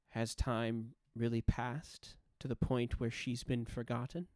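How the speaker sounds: lightly voiced old guardian, a touch of grumbling concern; halting, understated concern, with long pauses; Modra. Ancient guardian asking if her lady is forgotten, mildly concerned. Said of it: "There's a low grumble of, uh, concern".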